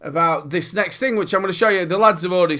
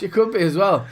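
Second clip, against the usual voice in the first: laughing; 2 semitones higher than usual. Real, not acted. Laughing at the joke.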